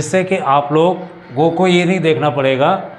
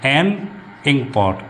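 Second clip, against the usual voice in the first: slow model reading; 3 semitones lower, 4 dB quieter, slower than usual. Shown as a demonstration. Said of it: "हमें वहाँ पे एन का use करना है".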